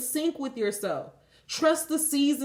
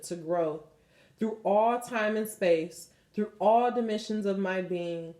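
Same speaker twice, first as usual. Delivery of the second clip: guided prayer; 3 semitones lower than usual. Acted. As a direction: lead them gently through the release prayer. Leads a release prayer.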